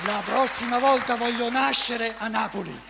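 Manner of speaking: excited. Real, not acted. Enthusiastic laughing shout after poem.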